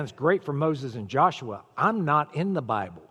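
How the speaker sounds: mock doubting listener. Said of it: "you're sitting in this room and saying".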